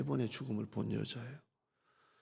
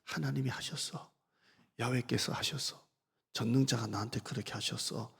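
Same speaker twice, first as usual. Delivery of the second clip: softer, resigned acknowledgment; a hint of sorrowful acceptance; surrendering quietly to God; quiet confession; 3 dB quieter than usual. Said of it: "이 말의 뜻이 뭐냐면".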